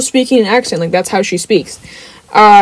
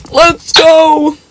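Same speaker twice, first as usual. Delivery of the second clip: high, drawn-out celebratory call; excited cheer; 7 semitones higher, 4 dB louder than usual. Real, not acted. Streamer cheering on the team in a game, excited. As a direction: cheer it out, pitched up.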